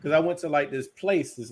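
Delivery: slow, a little tipsy. Real, not acted. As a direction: talk a bit slowly, tipsy. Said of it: "low-key drunk".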